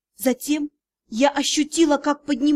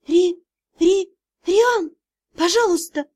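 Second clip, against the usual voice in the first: higher, louder stammering plea; frightened plea; 4 semitones higher, 4 dB louder than usual. A narrator's reading. Heroine begging Rian in fear, higher and louder. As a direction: stammer out his name in panic.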